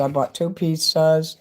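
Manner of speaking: words cut by a sudden tic; vocal tic. Real, not acted. Streamer to viewers, pizzas line interrupted by a tic. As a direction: tic breaks through the line. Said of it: "what you just heard me do there".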